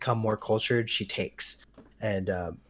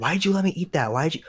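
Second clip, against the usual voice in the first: higher-pitched mock complaint; complaining; 6 semitones higher than usual. Child imitating mom griping about the snack, mock complaint. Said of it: "she's complaining".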